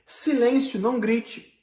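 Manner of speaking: mock stern order to stop shouting; hushing command. Shown as a demonstration. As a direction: tell someone sharply to hush. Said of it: "Você entende?".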